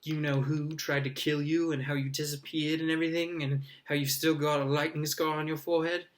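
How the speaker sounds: put-on excited young boy, quick and bright; eager boy voice. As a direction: gush like an awed first-year. Colin's eager voice.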